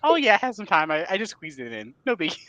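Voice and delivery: playfully imitating a smug friend; mock casual brag. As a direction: toss it off like it was nothing.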